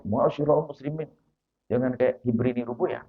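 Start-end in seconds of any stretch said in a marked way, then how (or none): 0.1-1.1 mock formal preacher. Shown as a demonstration. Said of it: "Nggak usah".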